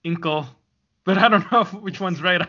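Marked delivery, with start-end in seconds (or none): 0.1-0.4 "Inkle" with an unstressed, swallowed last syllable; "Inkle", stressed on the first syllable; "Incal" said as Inkle. Shown as a demonstration. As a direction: say "Inkle" to rhyme with "twinkle". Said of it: "I've just been calling it Inkle".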